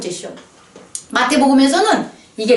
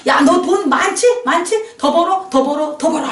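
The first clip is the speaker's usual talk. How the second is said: tempting world voice; 4 semitones higher than usual. Retold or imitated. Voicing the world's greedy urging.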